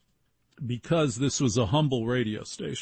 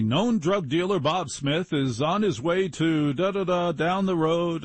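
radio news read; 5 semitones higher than usual. Retold or imitated. Redoes his on-air news report.

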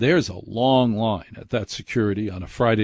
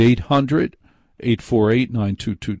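each digit group punched louder; announcer phone number; 4 dB louder than usual. Shown as a demonstration. Host reading the call-in number to listeners, stressed. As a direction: give the number out like an ad. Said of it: "reads phone number on air".

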